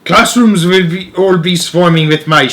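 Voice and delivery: lightly voiced witch, mock shouting; witch's shout. Grand High Witch shouting plans to her witches, lightly voiced. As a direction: proclaim it to the crowd with a touch of menace. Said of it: "shouted the Grand High Witch".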